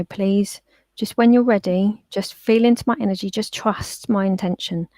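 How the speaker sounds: calm, soothing plea to a dog; calm reassurance. Retold or imitated. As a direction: coax gently, easing off at the end. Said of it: "I'd got my energy very calm".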